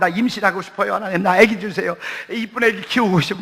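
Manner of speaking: imitated fervent prayer. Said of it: "막 기도해요".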